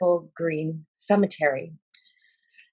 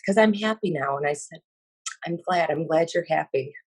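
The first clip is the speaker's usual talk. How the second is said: choked up; 2 semitones higher than usual. Real, not acted. Witness retelling a dead boy's farewell, choked up. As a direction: voice rising with real emotion.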